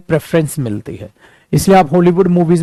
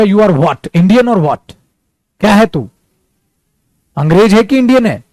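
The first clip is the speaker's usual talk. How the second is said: irritated interviewer; 2 semitones higher than usual. Retold or imitated. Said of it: "वो गुस्सा आ जाएगा और वो बोलेगा".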